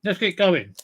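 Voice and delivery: talking through a bite of Kit Kat; mouth full. Real, not acted. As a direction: speak with food in your mouth. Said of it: "Don't speak with your mouth full".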